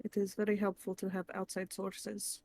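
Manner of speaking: careful, deliberate advice with spaced phrases; measured mentor. Acted. Naya urging a kid to study outside school, measured mentor. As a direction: advise like a patient mentor, every word distinct.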